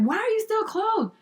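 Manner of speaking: high-pitched imitation of impatient orders; snippy retold commands, not shouted; mock angry. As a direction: play the annoyed organizer hurrying a model. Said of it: "never seen you so angry".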